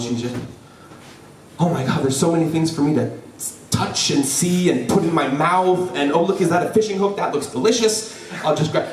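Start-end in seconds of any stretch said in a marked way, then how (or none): 1.6-8.9 lightly voiced excited little kid; a hint of an over-curious child; inquisitive five-year-old. Five-year-old sister eyeing things on the docks, lightly voiced eager child. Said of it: "being an inquisitive five-year-old".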